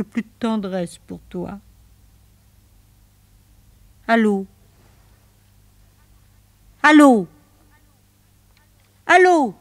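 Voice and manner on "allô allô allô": rising, louder allô each time; calling into phone. Acted. Woman calling into a dead line, rising panic. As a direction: call out after the lost line, more frantic.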